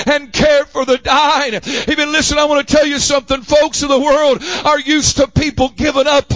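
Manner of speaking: driving pulpit cadence, phrase after phrase; fervent preaching. Real, not acted. Preacher telling the church never to give up on folks, fervent. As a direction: press on urgently without letting up.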